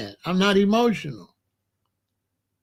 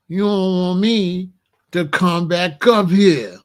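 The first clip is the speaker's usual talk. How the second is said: slow, menacing warning, a touch louder at the end; 3 dB louder than usual. Retold or imitated. Brother warning his sister's male friends, slow and menacing. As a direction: lean on it slowly so they get the threat. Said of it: "letting them know".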